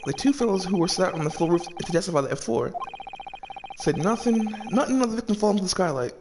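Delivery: a hint of a sly Irish witness, soft and knowing; lightly voiced Irish witness. Sly witness hinting to the judge, lightly Irish-voiced. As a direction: play the coy witness hinting at a secret. Reads witness lines in character.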